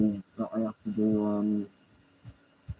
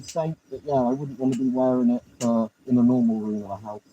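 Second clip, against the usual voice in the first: talking through a rubber gas mask; muffled through gas mask. Real, not acted. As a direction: voice muffled behind a helmet mask. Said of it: "can't hear me at all, the mask".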